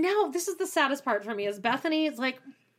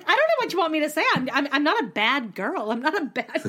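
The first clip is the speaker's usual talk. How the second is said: fast, higher mock Ramona, half laughing; imitating Ramona; 5 semitones higher than usual. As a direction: rattle it off like Ramona. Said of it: "Ramona's like".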